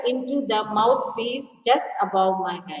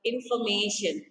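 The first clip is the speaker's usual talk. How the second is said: small clear voice; 3 semitones lower, 6 dB quieter than usual. A narrator's reading. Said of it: "a small clear voice spoke".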